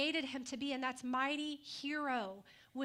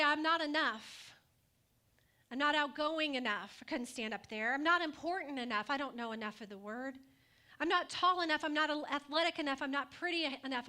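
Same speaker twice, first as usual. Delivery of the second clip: voicing self-doubt; 4 dB louder than usual. Preacher voices the congregation's excuses, lightly pleading. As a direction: plead each not enough excuse. You say.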